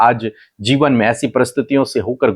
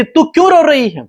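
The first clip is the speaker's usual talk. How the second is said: higher-pitched, questioning divine voice; voice of God; 14 semitones higher, 3 dB louder than usual. Retold or imitated. God asks weeping Hagar why she cries, raised questioning voice. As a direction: ask like God gently probing her tears, pitched up. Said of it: "परमेश्वर पहली बात उससे कहते हैं कि".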